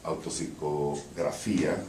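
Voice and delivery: title read in Portuñol-accented Spanish; Spanish pronunciation. Shown as a demonstration. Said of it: "Em Spanish".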